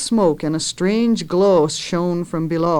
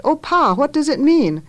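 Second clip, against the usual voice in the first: anxious question; 8 semitones higher than usual. A narrator's reading. Child asks frightened father.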